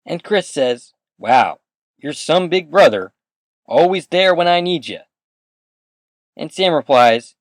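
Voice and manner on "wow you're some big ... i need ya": lightly acted sarcastic jab, higher and louder; retold sibling grievance, pitched up; mock reproach. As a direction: throw a raised, pointed complaint at your brother. Little brother reproaches big brother in quote.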